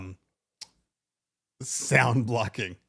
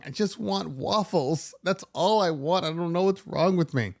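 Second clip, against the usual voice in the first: mock whine of a child, a bit higher; retold crying child; 4 semitones higher than usual. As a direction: lightly imitate a tearful little girl pleading. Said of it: "And she's crying".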